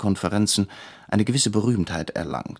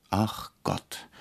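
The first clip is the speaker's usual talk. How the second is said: a soft, much quieter sighing groan; weary groan; 6 dB quieter than usual. A narrator's reading. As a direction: groan it out under your breath. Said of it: "stöhnte der Regisseur".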